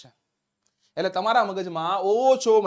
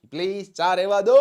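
mock pleading; 7 dB louder than usual. Guest declining a host's late-night tea, mock pleading. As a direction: beg off playfully, stretching the last word.

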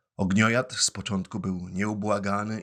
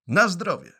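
put-on puppet boy blessing; 10 semitones higher, 8 dB louder than usual. Pinocchio answers the sneeze.

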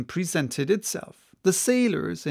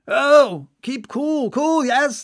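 much higher, mocking soothing; teasing; 9 semitones higher, 6 dB louder than usual. Stubb teases the furious mate, mockingly high. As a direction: taunt him to calm down.

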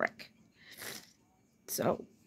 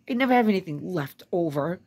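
louder, emphatic complaint; real fed-up outburst; exasperated; 2 semitones lower, 6 dB louder, faster than usual. Real, not acted. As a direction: hit it hard, at the end of your rope. Venting about having no money.

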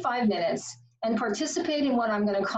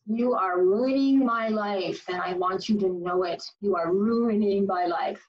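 purposeful power pout; 2 semitones lower than usual. Shown as a demonstration. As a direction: drive it home with deliberate force. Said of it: "The purposeful power pout".

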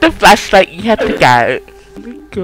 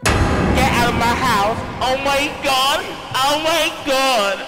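imitating ghost voice; 12 semitones higher, slower than usual. Repeats ghost line.

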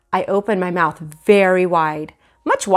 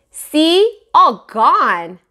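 put-on high, louder little boy; lightly voiced toddler; 8 semitones higher, 6 dB louder, much slower than usual. Fudge shows the salesman his missing teeth, a hint of a toddler. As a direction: show off gaps like a proud kid.

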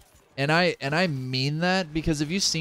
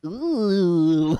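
cringing groan; 3 semitones higher than usual. Retold or imitated. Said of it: "not go like".

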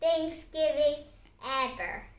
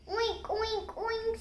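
higher, playful oinks; pig oink; 7 semitones higher, 4 dB quieter, slower than usual. A narrator's reading. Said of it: "said Pig".

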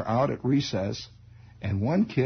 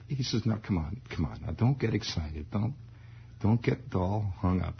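lower, softer man-to-man voice; low soft father coaxing his son; 4 semitones lower, 4 dB quieter than usual. Retold or imitated. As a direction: soothe the boy into confessing. Father gently interrogating son.

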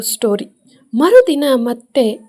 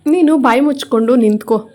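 understated angry retort; mild anger. Acted. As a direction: tell him off, a little annoyed. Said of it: "ನಯನ ಕೋಪದಿಂದ".

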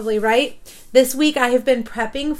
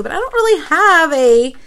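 ordinary delivery

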